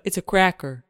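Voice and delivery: worm puppet voice. Acted. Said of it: "it's a hand puppet".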